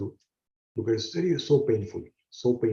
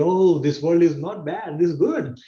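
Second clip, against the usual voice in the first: cheerful, raised pitch, slowed delight; happy baby voice; 4 semitones higher, 3 dB louder than usual. Retold or imitated. Teacher voicing a baby's delight with the world. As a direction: sound like a content child. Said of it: "we feel".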